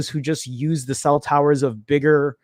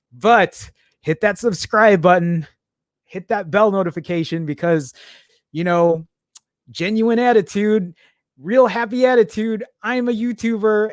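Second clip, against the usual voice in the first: upbeat, pitched-up YouTuber pitch; fake YouTuber voice; 4 semitones higher than usual. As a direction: put on a cheesy happy YouTuber voice. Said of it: "that's my fake YouTuber voice".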